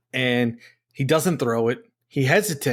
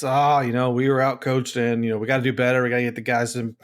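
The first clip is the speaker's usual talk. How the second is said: imitating a flat, bored coach; monotone; faster than usual. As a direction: drone it like a canned post-loss line. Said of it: "the same monotone".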